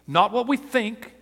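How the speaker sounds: high, loud, driving sermon delivery; impassioned preaching. Real, not acted. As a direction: press the question on the congregation at full force. Preacher drives the point home.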